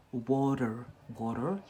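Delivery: "water, water" said the American way, twice. Shown as a demonstration. Teacher showing livestream viewers the American accent "water". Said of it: "in America, they say".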